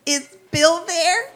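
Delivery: imitating women calling the newsroom, high and slow; sultry caller. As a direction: coo it like an admirer phoning in. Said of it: "other women would call the newsroom".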